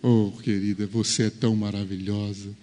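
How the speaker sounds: soft, sweet words to a wife; husband lovingly praising his wife, soft; tender praise. Acted.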